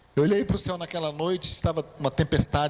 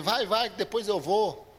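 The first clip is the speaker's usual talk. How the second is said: joking brush-off; 5 semitones higher than usual. Pretend. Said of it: "Tô brincando".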